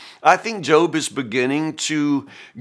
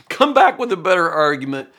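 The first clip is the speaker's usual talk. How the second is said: higher, louder emphatic dare; Job's challenge; 4 semitones higher, 5 dB louder than usual. Acted. Preacher voices Job daring his friends, challenging. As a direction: dare them to argue better.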